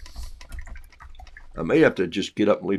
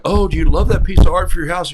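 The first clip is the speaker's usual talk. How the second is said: mock admiring buyer; 7 semitones higher, 14 dB louder than usual. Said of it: "People going like".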